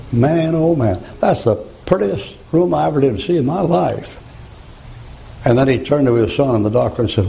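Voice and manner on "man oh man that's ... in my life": awed wonder. Retold or imitated. Dying preacher sees heaven.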